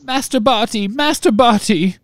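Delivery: high squeaky sobbing elf; house-elf voice. A narrator's reading. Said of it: "sobbed Winky".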